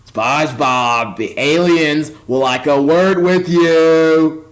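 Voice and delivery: lightly voiced slow, low announcer line; a hint of a deep dramatic announcer; mock announcer. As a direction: drag it out like a cheesy TV announcer. Quoting the show's announcer.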